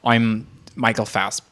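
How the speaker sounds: put-on halting, slow stab at an actor's muffled accent; badly faked actor's American accent, giving up; Michael Fassbender impression. Podcast guest retrying an actor impression for co-host, halting mock accent. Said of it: "He always is like".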